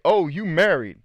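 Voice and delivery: high, loud mock surprise; old lady surprised. Old lady spotting his wedding ring, high mock surprise. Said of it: "She's like".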